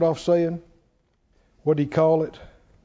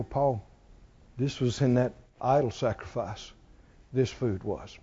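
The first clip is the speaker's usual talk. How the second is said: much softer and lower, a confidential murmur; hushed aside; 8 semitones lower, 9 dB quieter than usual. Retold or imitated. A dinner guest warns Paul about the meat, hushed and confidential. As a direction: lean in and tell a secret. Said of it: "look at him and go".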